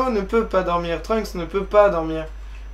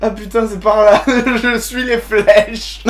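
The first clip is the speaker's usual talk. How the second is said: ordinary delivery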